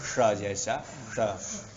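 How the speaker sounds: isolated retroflex sh for ष; retroflex sibilant. Shown as a demonstration. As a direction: say ष as sh, never kha. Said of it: "थोड़ा और ऊपर जाना चाहिए जीवा".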